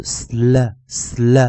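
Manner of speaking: "sl" repeated clearly as one blended sound; blend demo. Shown as a demonstration. Teacher showing students how S and L combine, clear drill. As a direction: join S and L into "sl". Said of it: "我们跟S L合起来就是".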